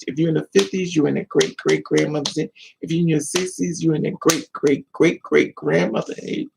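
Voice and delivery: ordinary talk, nothing marked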